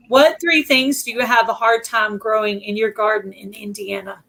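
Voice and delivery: hoarse whisper, voice failing; losing voice. Real, not acted. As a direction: voice gone to a whisper. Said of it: "I don't know why I'm losing my voice".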